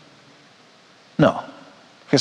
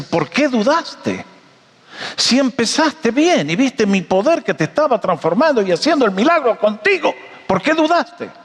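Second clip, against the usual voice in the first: acted reproach; 7 semitones higher than usual. Acted reproach of Jesus to Pedro.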